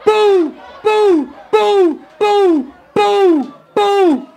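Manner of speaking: loud booing shout from the crowd. Retold or imitated. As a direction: boo him off the stage at full voice. Crowd booing him on stage.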